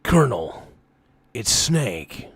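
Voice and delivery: gruff soldier voice; Snake voice. Acted. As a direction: growl it like Solid Snake. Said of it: "Snake's voice".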